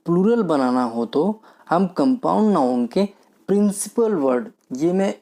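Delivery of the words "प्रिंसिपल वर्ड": "प्रिंसिपल वर्ड" raised higher and stressed; teacher stressing "प्रिंसिपल वर्ड" so students remember it; emphasis on principal word. Shown as a demonstration. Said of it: "बिल्कुल emphasis करके बोल रहा हूँ, जोर दे के बोल रहा हूँ".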